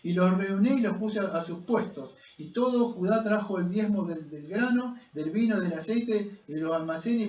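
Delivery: scripture read aloud to a congregation; lectura bíblica en voz alta. A narrator's reading. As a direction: read out the passage in steady, rising phrases. (lectura proclamada de la Biblia)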